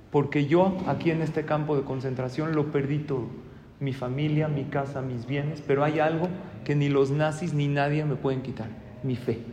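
subdued, softening list of losses; quiet, grave testimony of faith; solemn letter reading. Acted. Camp prisoner writing what nobody can take from him, solemn and hushed.

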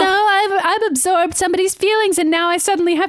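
lightly hammed-up helpless heroine; Rogue. Mocking Rogue absorbing someone's feelings, mock-distressed. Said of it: "Rogue's so fucking Anna Paquin".

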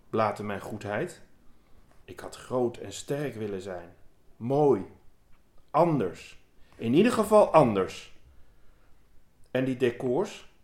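measured, deliberate poetry reading; poem reading. Acted. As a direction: read the poem aloud with weight and pauses. Reads a poem aloud.

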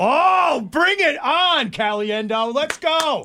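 high, drawn-out mock battle cry; playful challenge. Playful ping pong challenge accepted.

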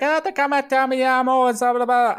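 high rattling Spanish gibberish; mock Spanish worker. Airport worker rattling at a confused traveller, high mock Spanish voice. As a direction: babble fast Spanish-ish words up high.

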